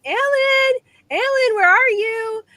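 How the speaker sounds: high, anxious mock call across the house; retold calling out. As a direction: call out for Alan, half-panicked, as if he has vanished.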